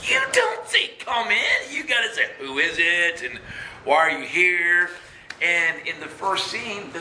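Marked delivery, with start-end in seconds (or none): 0.0-4.9 high, loud, frantic telling-off of the lady; exasperated scolding. Retold or imitated. Urgently warning the lady not to invite the demon in, high and loud. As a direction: yell instructions at her like she's making a fatal mistake.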